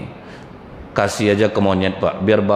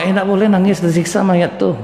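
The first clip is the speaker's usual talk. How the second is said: scolding busybody; 8 semitones higher than usual. Retold or imitated. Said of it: "Nampak orang".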